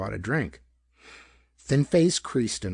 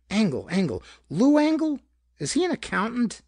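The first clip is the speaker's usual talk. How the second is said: much higher, put-on innocent wondering; feigned recall; 12 semitones higher, 4 dB louder than usual. A narrator's reading. Killer pretends to search his memory to the elevator boy, feigned innocence. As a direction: play dumb, fishing for information.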